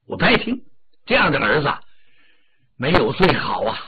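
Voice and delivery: 低沉严厉的父亲, 不耐烦地训斥; 压着嗓子数落妻子; 李靖发火. Acted. 李靖训斥夫人. (略带怒气的李靖口吻)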